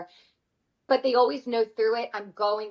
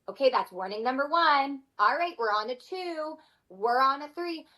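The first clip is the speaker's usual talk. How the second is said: higher, deliberate countdown of warnings; counting down warnings; 4 semitones higher than usual. Retold or imitated. Mom counting warnings at misbehaving kids, firm and higher.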